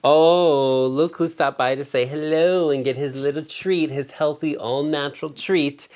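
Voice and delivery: greeting her dog who came for a treat, cooing. Real, not acted. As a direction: coo at the dog as he walks in.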